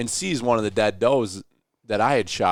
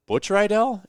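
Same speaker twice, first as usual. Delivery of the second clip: high, stunned name; surprised question; 11 semitones higher, slower than usual. Retold or imitated. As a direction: it dawns on you mid-question. Sudden recognition of old acquaintance.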